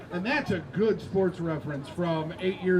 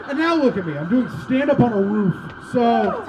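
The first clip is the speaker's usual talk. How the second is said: ordinary delivery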